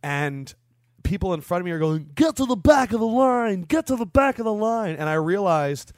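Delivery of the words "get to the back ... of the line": high, loud heckle from the queue; yelled quote. Retold or imitated. People in line yelling at line-cutters, loud high shout. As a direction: holler it like an indignant crowd.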